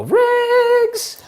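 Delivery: high call across the room. Real, not acted. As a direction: call the dog's name loud and high. Calling the dog.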